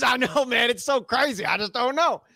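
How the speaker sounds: high mock-innocent voice breaking into a laugh; playing dumb. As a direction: squeak it out high, laughing through. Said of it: "He goes".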